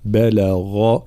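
"بلغ" slowly, heavy voiced ghayn, light ba and lam; thin "بل", then a full, heavy "غ" in "بلغ". Shown as a demonstration. Teacher showing the letters of the word, "بلغ" with heavy ghayn. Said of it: "الغين مفخمة مجهورة مع ترقيق الباء واللام".

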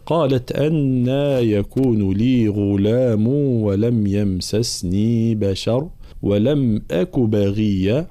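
slow, measured tajweed chant; Quran recitation. Acted. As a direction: recite with long held vowels. (ترتيل قرآني)

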